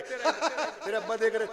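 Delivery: slow words through a giggle; a shy man laughing behind his hand; stifled laughing. Retold or imitated. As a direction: giggle it out shyly. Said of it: "हंसते रहेंगे".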